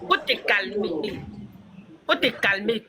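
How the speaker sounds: low, soft appeal to calm down. Real, not acted. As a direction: talk an upset friend down gently. Soothing an upset friend. (ton apaisant)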